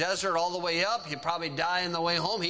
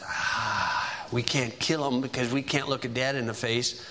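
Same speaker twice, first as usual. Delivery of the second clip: lower, plotting voice of a hard brother; scheming brother; 5 semitones lower than usual. Retold or imitated. Levi telling the brothers to sell Joseph, lower scheming voice. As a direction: lay out the plan low and cold. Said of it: "And Levi says".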